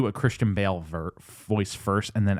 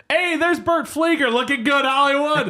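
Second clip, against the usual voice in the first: imitating Robin; 5 dB louder than usual. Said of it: "Robin just goes".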